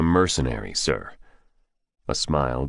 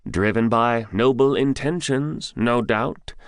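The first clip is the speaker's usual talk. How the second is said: sarcastic; 6 semitones higher than usual. Acted. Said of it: "Silverhair said sarcastically".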